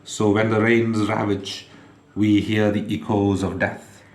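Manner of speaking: measured, emphatic poetry reading, phrase by phrase; poem recitation. Acted. Reads their poem aloud.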